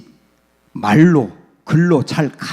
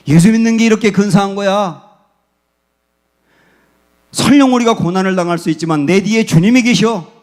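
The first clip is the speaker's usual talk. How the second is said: raised, louder, proud parent voice; a parent proudly showing faith to the kids; confident parent encouraging child; 4 semitones higher, 4 dB louder than usual. Retold or imitated. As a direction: cheer your child on with bold faith. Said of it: "이렇게 보여주는 거예요".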